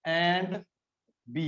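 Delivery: very slow, word by word with pauses; slow dictation. Shown as a demonstration. Teacher dictating the formula to students, slow and spaced. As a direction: dictate it slowly so the class can copy it down. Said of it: "ਇਹਨੂੰ ਲਿਖੂੰਗਾ ਮੈਂ A".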